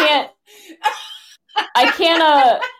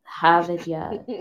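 put-on slow, drawn-out Boston accent; softer mock Boston accent; 5 semitones lower, 5 dB quieter, slower than usual. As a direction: imitate Boston speech, dropping the R's. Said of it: "I don't got that accent".

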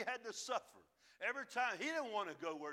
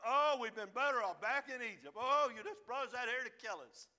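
loud mocking complaint from the grumbling crowd; preacher mocks the Israelites' loud complaint; whining Israelites; 3 semitones higher, 6 dB louder than usual. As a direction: play the crowd that wants to go back to Egypt.

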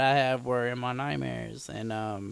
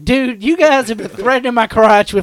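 loud, exasperated outburst; 5 semitones higher, 13 dB louder than usual. Real, not acted. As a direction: shout it out, fed up and fuming. Heated complaint about rubber bands.

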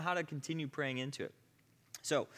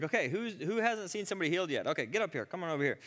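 lightly voiced instructor, pitched up; brisk teacher; 5 semitones higher, faster than usual. Vineyard teacher calling a volunteer to the front, brisk and raised. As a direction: call someone up from the room. Acting out remembered healing teacher.

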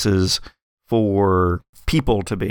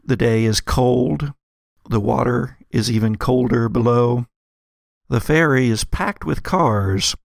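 measured game master narration, slightly raised pitch; scene setting; 4 semitones higher than usual. Acted. Game master introducing ferry passengers to players, scene setting.

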